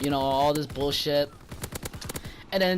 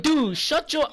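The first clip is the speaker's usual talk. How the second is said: retold annoyance; 9 semitones higher, slower than usual. Retold quarrel with complaining customer.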